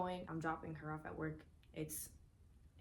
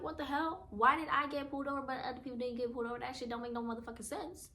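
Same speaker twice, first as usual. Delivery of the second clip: indignant; 6 semitones higher, 3 dB louder, faster than usual. Retold or imitated. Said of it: "I'm just like".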